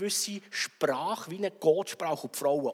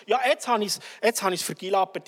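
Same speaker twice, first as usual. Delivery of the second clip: despairing; 3 semitones higher, 5 dB louder than usual. Acted. Preacher acts despairing person.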